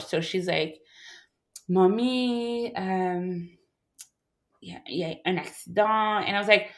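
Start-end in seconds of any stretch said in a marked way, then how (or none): 1.7-6.3 soft, broken words that barely come out; halting bad news. Sister on the phone, hesitant and soft. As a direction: struggle to get the word out. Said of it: "she can't seem to get the word out".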